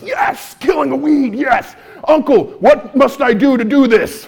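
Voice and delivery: lightly hammed-up epic god voice; a hint of a booming Norse god; like Thor. Asking his uncle for weed killer, in a mild mock Thor voice. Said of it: "I feel like Thor talking like that".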